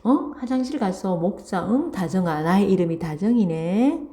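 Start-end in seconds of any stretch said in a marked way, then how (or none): 0.0-2.4 gently wheedling, calling the name kindly; mild friendly persuasion; affectionate coaxing. Acted. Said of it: "정말 다정하게 부르면서".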